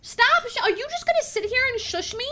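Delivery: high, loud mock-outraged yell; playful yell. Yelling at chat's TTS shushing.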